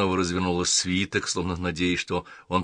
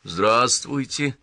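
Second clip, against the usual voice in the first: slow, higher, hesitant hello; uncertain greeting; 4 semitones higher, much slower than usual. Acted. Puzzled man answers a girl he just noticed, uncertainly. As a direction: draw out an unsure greeting. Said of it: "неуверенно пробормотал он".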